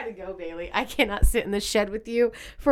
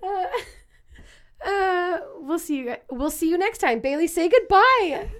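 trying not to laugh; 8 semitones higher, slower than usual. Real, not acted. Outro during laughing fit.

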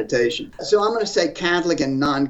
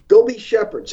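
raised, forceful call to the bishops; loud exhortation; 5 semitones higher, 6 dB louder than usual. Real, not acted. Speaker to US bishops, telling them to go be shepherds, loud exhortation. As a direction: command them loudly to go back to their flocks.

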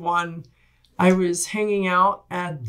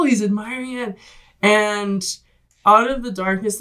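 ordinary delivery

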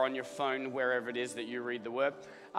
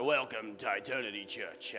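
a low, soft, light imitation of a pastor's greeting; a lightly voiced nod to a famous pastor; Brian Houston; 6 semitones lower, 6 dB quieter than usual. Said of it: "I sound like Brian Houston".

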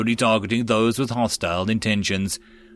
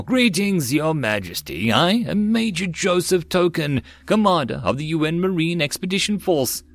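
a touch of swagger, higher; cocky soldier voice; 6 semitones higher than usual. Acted. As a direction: introduce yourself with swagger. Newcomer introduces himself.

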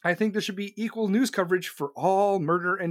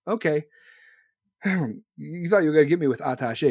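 ordinary talk, nothing marked

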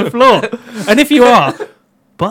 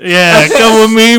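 yob voice; 2 semitones higher, 6 dB louder than usual. Pretend. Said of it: "I want him to voice all yobs".

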